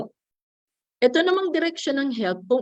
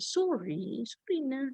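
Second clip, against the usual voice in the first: frowning apology; 4 semitones higher, 8 dB quieter, slower than usual. Shown as a demonstration. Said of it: "mag-frown ng sorry na".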